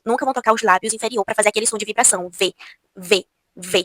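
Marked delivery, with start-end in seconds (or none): 2.3-3.8 V with the upper teeth on the lower lip; Portuguese v. Shown as a demonstration. Teacher showing the Portuguese v that Spanish lacks. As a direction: buzz the V through the teeth. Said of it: "isso é só na língua portuguesa".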